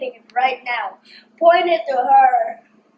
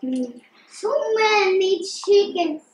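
talking while chewing noodles; muffled words around food; mouth full, chewing; 2 semitones higher than usual. Real, not acted. Seen 2: Fork brings noodles to mouth at -2; lips closed, chewing throughout.

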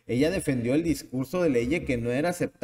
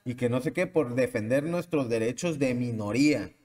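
smug students. Retold or imitated. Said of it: "han de haber dicho".

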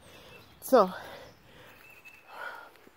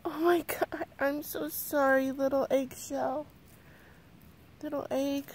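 tender apology; 3 semitones higher than usual. Real, not acted. Apologizing tenderly to the little egg.

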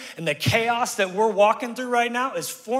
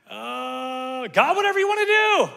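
mock pious prayer; 5 semitones higher, 4 dB louder than usual. Mocking control freak prayer.

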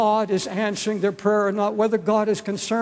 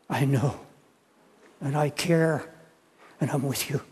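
low, softened, understated reassurance; lightly voiced tender comfort, dropping softer at the end; gently comforting; 5 semitones lower, 3 dB quieter than usual. Jesus answering someone who hurts, gently comforting.

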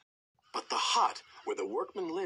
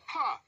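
a short, much higher scoffing "Ha!"; defiant snort; 11 semitones higher than usual. A narrator's reading. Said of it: "snorted James".

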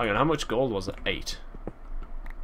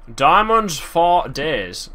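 excited; 5 semitones higher, 5 dB louder, much slower than usual. Real, not acted. Excited about finding diamonds.

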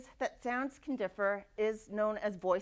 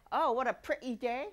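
Cockney accent. Shown as a demonstration. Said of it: "With a Cockney accent".

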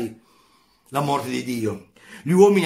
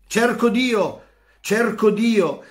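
high, loud cry searching for God; shouting; 8 semitones higher, 4 dB louder, slower than usual. Acted. Madman shouting in the market for God, loud cry. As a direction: cry it out over the market crowd. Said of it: "si mise a gridare incessantemente".

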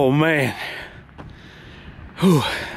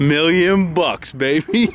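gleeful; 3 semitones higher, much slower than usual. Real, not acted. Slow gleeful echo.

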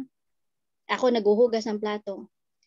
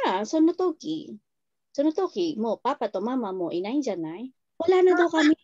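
laughing retold answer. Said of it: "Alam mo kung anong sagot?".

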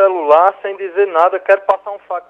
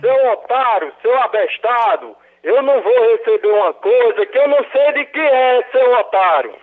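annoyed insults, slightly louder; angry; 3 semitones higher, 5 dB louder than usual. Real, not acted. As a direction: snap back at the caller. Insulted by prank caller.

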